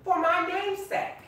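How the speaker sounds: high, loud, rising praise over the group; fired-up preaching. Acted. Preacher praising the church members, fired up. Reading Revelation with names added.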